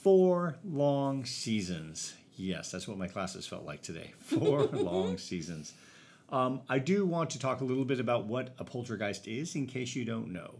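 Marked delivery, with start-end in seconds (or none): 0.0-2.2 drawn out. Acted. Teacher sighing about a long day, slow and drawn out. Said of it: "weary joke". 4.2-5.7 laughing. Real, not acted. Repeating the tired joke while laughing.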